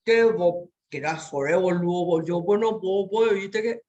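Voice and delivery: mocking imitation of slangy youth; imitating youth slang. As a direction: ham up a teenager talking slang. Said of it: "voy a usar algo que ellos utilizan".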